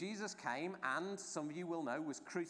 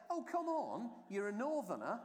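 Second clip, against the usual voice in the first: high-pitched mock disbelief; disbelieving challenge; 7 semitones higher than usual. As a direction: challenge him as an incredulous bystander, pitched up. Bystanders challenging Peter's denial.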